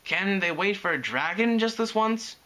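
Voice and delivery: put-on high-pitched childish complaint; grumbling. A narrator's reading. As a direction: grumble pleadingly, like a tired kid. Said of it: "Spike grumbled".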